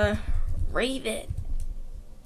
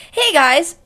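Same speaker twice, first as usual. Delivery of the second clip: louder eager "Hey guys!"; excited Beast Boy; 2 semitones higher, 8 dB louder than usual. Acted. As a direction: greet them all keyed up. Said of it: "Beast Boy gets excited".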